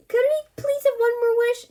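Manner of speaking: high, loud desperate plea; loud pleading. Acted. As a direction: beg loudly before he vanishes. Begging the genie.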